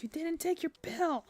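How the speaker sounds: high, slow, robotic reminder voice; medication reminder voice. Retold or imitated. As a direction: sound like a nagging pill alarm. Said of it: "My medication keeps saying, is like".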